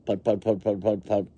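even, choppy engine put-puts; motorboat putting. A narrator's reading. Little motorboat going along, choppy engine noise. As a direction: lightly imitate a little motor chugging. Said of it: "says the little motorboat".

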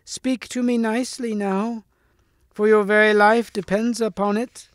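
high, cracked hag voice; loathly lady's shrill warning. A narrator's reading. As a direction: pitch it far up, shrill and cracked. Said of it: "she cried in a shrill, cracked voice".

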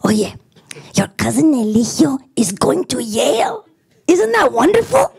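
put-on high, gushing grandmother with an accent; high delighted grandmother voice; excited grandma. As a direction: brag to your granddaughter, all thrilled. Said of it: "like, all excited".

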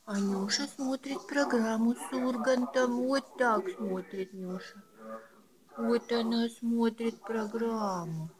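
bright sing-song pet talk; squeaky praising a dog. Real, not acted. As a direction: chirp it to the pet. Cooing to a pet. (восторженное сюсюканье)

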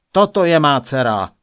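loud royal outburst; angry exclamation. A narrator's reading. King presenting the winning drawing, crying out loudly. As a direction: cry it out as a furious declaration. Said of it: "vykřikl".

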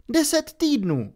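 put-on a girl correcting her friends at once; snapping Hermione. A narrator's reading. Hermiona opraví Rona ostře a vyšším hlasem. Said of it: "ocekla Hermiona".

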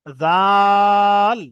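জাল held long and loud, ল only at the end; correct zal. Shown as a demonstration. Teacher showing students correct জাল. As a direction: stretch জা, then close on ল. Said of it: "তারপরে গিয়ে ল উচ্চারণ করবেন শেষে".

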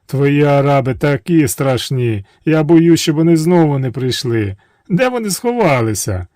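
a touch of put-on fear; mock fright. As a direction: play scared to learn the secret. Princess feigns fright.

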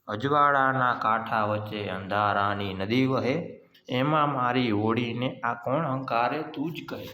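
slow, measured reading of verse; poem recitation. Acted. Teacher reciting a poem to young pupils, slow poem recitation. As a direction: recite it unhurriedly, drawing out the line ends.

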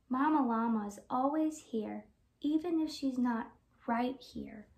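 lively picture-book read-aloud; gentle sing-song storybook reading; reading to children. Acted. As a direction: read it like storytime for little kids.

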